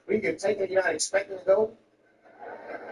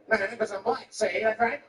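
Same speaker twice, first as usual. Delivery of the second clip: higher, old-time bad-guy retort; crazy talk; 4 semitones higher than usual. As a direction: put on the mock gangster voice. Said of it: "I'm, I'm talk crazy".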